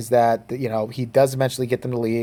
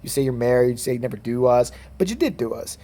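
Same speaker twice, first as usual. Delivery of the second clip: mocking girls. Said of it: "They're basically like".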